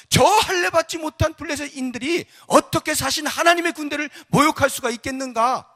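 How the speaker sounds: high, loud indignant outcry; crying out. Acted. Young David challenges those insulting God's army, crying out. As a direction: proclaim it at full voice. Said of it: "그러니까 외치는 거예요".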